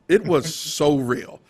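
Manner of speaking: real laugh breaking into so real; laughing emphasis. Real, not acted. Guest laughing while recalling.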